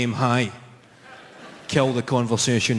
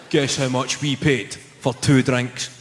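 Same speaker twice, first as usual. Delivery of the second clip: plain smug question; slower than usual. Retold or imitated. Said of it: "They just say".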